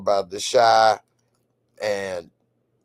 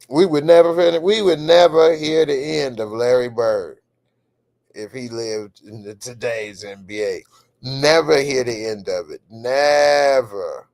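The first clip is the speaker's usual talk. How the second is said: loud, raised, hammering on never; emphatic; 5 dB louder than usual. Real, not acted. Host insisting to viewers about Larry Bird, emphatic.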